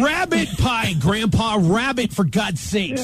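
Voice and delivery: annoyed, insisting on RABBIT; exasperated correction. Real, not acted. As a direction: snap the correction back.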